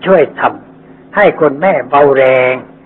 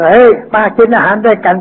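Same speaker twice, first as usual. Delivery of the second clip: a raised, slowed call across the yard; friendly call out; 6 semitones higher than usual. Retold or imitated. Workers calling the young man over to lunch, friendly shout.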